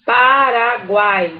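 "Paraguai" stretched slowly as paa-ra-guai; slow, linked pa-ra-guai; drawn-out syllables. Shown as a demonstration. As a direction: lengthen the syllables of "Paraguai" without full stops. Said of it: "A mesma coisa".

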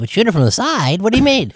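baffled director. Retold or imitated. Actor imitating the director asking a rapper about the shot, high and baffled. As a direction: play the director as lost and puzzled. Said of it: "he's like".

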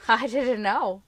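laughing through the words, loud; can't stop laughing while denying. A narrator's reading. Boyfriend laughing as his brothers accuse her. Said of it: "he said through his laughter".

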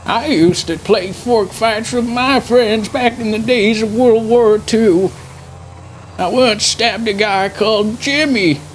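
put-on old veteran grandpa rambling; doddering old grandpa voice.

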